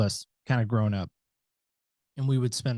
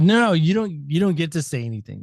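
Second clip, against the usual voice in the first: sharp raised no, no, cutting him off; loud cutoff; 4 semitones higher, 3 dB louder than usual. Retold or imitated. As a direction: shut him down hard and loud. Cutting off dad at table.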